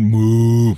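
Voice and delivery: long, loud, drawn-out moo; imitated cow moo. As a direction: imitate a singing toy cow's moo. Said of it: "mit einer sehr tiefen Stimme singt". (langgezogenes, nachgeahmtes Muhen)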